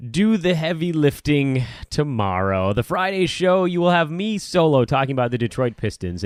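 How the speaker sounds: drawn-out, put-on enthusiasm; mock enthusiasm. Real, not acted. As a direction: announce a dreary chore with mock relish. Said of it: "you can hear it in my voice".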